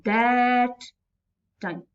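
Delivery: THAT stretched out, then a short TIME; wrong-footed reading, weight on THAT; stress on THAT. Shown as a demonstration. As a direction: lean on "that", drop "time". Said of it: "I will not read it like this".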